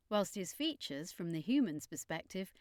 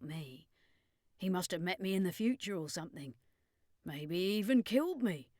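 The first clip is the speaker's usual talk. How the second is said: lightly voiced wary vampire woman; a hint of a doubting, protective Carlene; Carlene's voice. A narrator's reading. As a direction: Carlene reassuring the kids, mildly uneasy. Carlene confides to the children.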